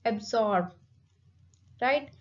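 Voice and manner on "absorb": "absorb" with SORB stressed; light first syllable, weighted SORB in "absorb"; stress on second syllable. Shown as a demonstration. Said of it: "the stress is on second syllable".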